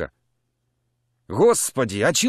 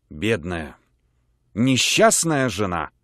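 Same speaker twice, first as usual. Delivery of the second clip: sighing; 3 semitones lower, slower than usual. Acted. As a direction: sigh it out with mock pity. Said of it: "вздохнула полковница".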